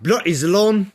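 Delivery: high, loud, hammed-up British accent; mock a Brit cursing the streamer, badly British. Streamer imagines Tox cursing him, bad British accent. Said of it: "that's a bad accent".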